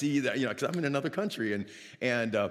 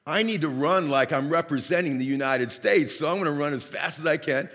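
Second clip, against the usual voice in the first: loud, higher-pitched self pep talk; fired-up resolve; 3 semitones higher, 6 dB louder than usual. Retold or imitated. Lone American resolving to outrun his hosts, loudly fired up. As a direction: retell psyching yourself up, punching it out.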